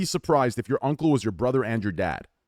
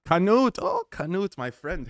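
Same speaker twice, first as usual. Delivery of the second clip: excited greeting; 7 semitones higher, slower than usual. Real, not acted. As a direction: greet a friend with a big lift.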